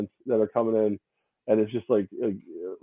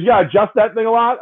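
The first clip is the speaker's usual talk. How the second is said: quoting acquaintance; 9 semitones higher, 6 dB louder than usual. Retold or imitated. Retold acquaintance persists.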